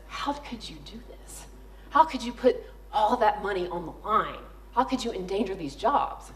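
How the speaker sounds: lightly voiced scolding boss, the opening breathed; a hint of a boss hissing disapproval; hushed scolding CEO. Angry CEO scolds her.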